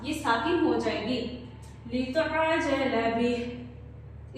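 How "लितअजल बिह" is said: slow, drawn-out Quran recitation. Shown as a demonstration. Teacher reciting slowly for the class to repeat. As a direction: chant each word slowly for the student. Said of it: "इस सारी को मेरे साथ पढ़ें".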